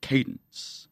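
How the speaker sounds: sing-speak like a grunge country fella, lightly twanged; low twangy country fella voice. Shown as a demonstration. Showing the podcast her country singer voice. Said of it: "Kinda down here like this".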